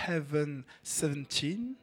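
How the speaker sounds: slow English name in a French accent; drawn-out French-accented English. Real, not acted. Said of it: "Toujours mon accent anglais".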